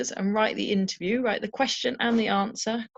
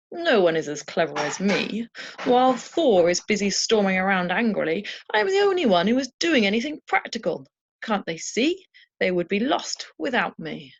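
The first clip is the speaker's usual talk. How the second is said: boastful Loki; 4 dB louder than usual. Acted. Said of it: "my imagined idea of what Loki might say".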